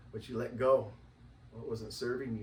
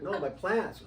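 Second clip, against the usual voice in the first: laughing reply; 8 semitones higher, 6 dB louder, slower than usual. Retold or imitated. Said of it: "when you get to, like".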